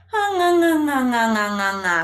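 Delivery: "Ha nga" starting high and loud, sliding down; nga slide down. Shown as a demonstration. Voice coach sliding "nga" down the scale. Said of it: "it's like sing nga".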